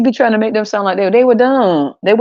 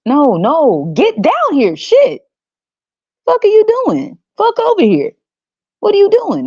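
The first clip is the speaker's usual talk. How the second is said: hammed-up desperate shout, much higher; Jesus hollering from the cross; 12 semitones higher than usual. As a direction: yell down in outrage as the man on the cross. Voicing Jesus yelling from cross.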